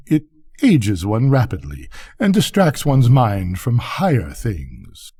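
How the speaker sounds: lightly voiced pompous grandee; boastful rocket. Rocket boasting to the duck of his family, pompous. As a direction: proclaim your importance with mild grandeur.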